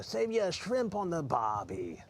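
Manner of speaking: slow, hammed-up Australian accent from an old TV ad; slow mock Australian commercial voice. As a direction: play the Aussie ad pitchman in a bad Australian accent. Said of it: "the only one I can do is, off the old commercials".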